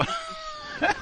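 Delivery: high shrieking burst of laughter. Real, not acted. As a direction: laugh out in shocked disbelief. Disbelieving laugh at quote.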